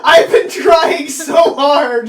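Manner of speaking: put-on slow, loud old-timey announcer; old radio broadcaster. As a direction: stretch it like a radio host. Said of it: "talking like a nineteen twenties radio broadcaster".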